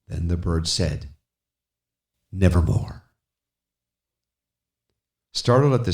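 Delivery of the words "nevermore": raven's croak. Acted. Narrator voices the raven answering the speaker. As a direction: give the raven's single dark word.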